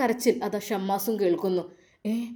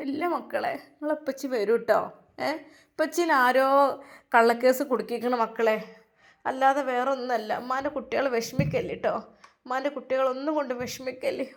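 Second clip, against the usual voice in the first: tender comforting. Acted. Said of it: "മക്കളെ ചേർത്ത് പിടിച്ച് കരയുന്നു".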